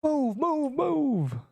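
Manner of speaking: high, urgent shouting; urgent yelling. Real, not acted. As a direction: yell at them to move. Yelling at players in game.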